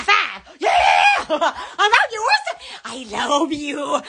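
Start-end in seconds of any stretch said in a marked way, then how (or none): 1.3-2.6 quick, laughing shout; affectionate holler with a laugh; excited affection. Real, not acted. Calls out affection to viewers. 2.8-4.0 drawn-out low tone; low, lingering declaration; slow, low affection. Real, not acted.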